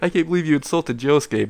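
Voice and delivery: high-pitched teasing voice with a spoken ha-ha; mock laughing taunt. System mocks Issei for insulting Josuke, mock laughing taunt. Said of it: "has a laughing emoji face".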